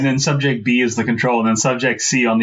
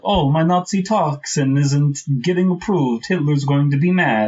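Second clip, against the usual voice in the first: lightly put-on Norwegian accent; a hint of a Norwegian villain voice; faint Norwegian accent, pleased with himself; mock Norwegian; 3 semitones higher than usual. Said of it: "a little Norwegian".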